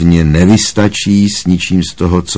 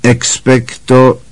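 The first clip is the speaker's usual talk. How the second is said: mild incantation; 4 semitones higher, much slower than usual. A narrator's reading. Practising the spell aloud.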